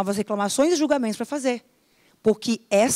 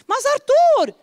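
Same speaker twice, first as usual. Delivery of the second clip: higher, louder reproach; mock scolding; 14 semitones higher, 6 dB louder, slower than usual. Mother scolding Arthur, high and loud. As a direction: scold the boy. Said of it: "mother scolding son".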